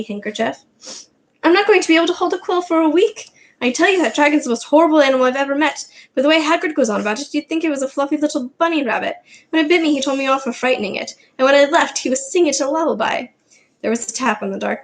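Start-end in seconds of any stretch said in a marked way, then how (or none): 1.4-13.3 Ron's voice. Acted. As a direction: grumble like a wronged schoolboy. Narrator voices Ron at length.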